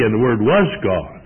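"And the Word WAS God", weight on the verb; stress on "was". Shown as a demonstration. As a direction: lean on "Word was", leaving "God" unaccented. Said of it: "emphasize, uh, the verb to be".

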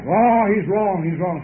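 loud, high, slow insistence; brother-in-law loudly insisting the preacher is wrong; stubborn denial. Retold or imitated. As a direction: dig in and flatly refuse it.

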